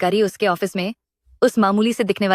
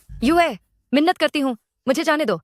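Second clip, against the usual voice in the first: desperate begging; 6 semitones higher than usual. Acted. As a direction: beg him to let you go. She begs to be released.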